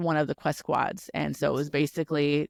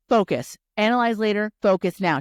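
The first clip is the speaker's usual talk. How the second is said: firm command; 4 semitones higher, 6 dB louder than usual. Retold or imitated. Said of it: "Tyrion's like".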